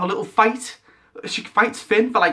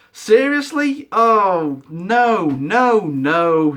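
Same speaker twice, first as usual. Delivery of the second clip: loud denial; 4 dB louder, much slower than usual. Real, not acted. Rejecting the twist.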